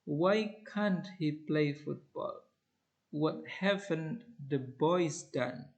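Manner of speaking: slow, contracted can't and haven't; slow falling questions. Shown as a demonstration. Teacher modelling negative questions, slow. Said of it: "contracted form".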